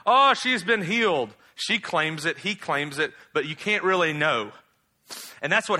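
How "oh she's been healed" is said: higher and louder, a hint of gossip; an onlooker gasping at the rumour; mock amazed onlooker.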